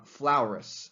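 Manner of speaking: "Flaurus" with a drawn "ow" in the first syllable; mocking mispronunciation. Emperor teasing his critic's name, "Flaurus" with "ow" vowel. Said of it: "he kind of makes fun of".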